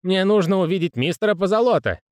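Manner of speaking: jittery, slurring clerk voice; a hint of a tipsy panicked man; drunk nervous clerk.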